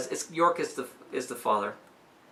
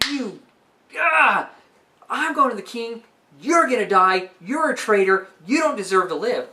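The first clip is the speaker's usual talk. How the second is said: pitched up, loud, mock-furious father; 6 semitones higher, 5 dB louder than usual. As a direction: rage at the traitor son. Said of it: "the father's like".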